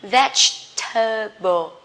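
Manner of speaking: vegetable said slowly, four clear syllables; slow careful vegetable. Shown as a demonstration. Teacher modelling vegetable slowly for learners.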